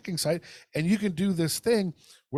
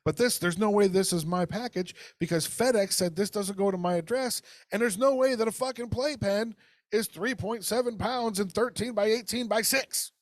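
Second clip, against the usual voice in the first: indignant complaint; 7 semitones higher than usual. Retold or imitated. Quoting own complaint message.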